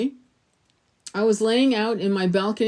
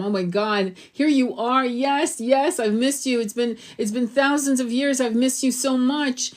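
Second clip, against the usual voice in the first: higher, overjoyed welcome; joyful reunion; 4 semitones higher than usual. Pretend. Greeting God after thousands of years, overjoyed. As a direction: gush with relief at finally meeting.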